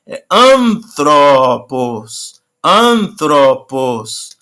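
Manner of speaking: "antropos" drawn out slowly, stress on the first syllable; slow stress demo. Shown as a demonstration. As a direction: slowly model "antropos" for students. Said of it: "No an". ("antropos" bem devagar, acento no início)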